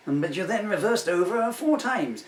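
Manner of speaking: loud, high judge in disbelief; incredulous judge. Acted. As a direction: throw the accusation at him, loud and high. Acted courtroom, judge presses.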